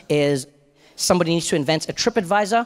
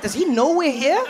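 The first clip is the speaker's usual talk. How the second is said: nervous whisper-ish; 7 semitones higher than usual. Retold or imitated. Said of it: "I'm like".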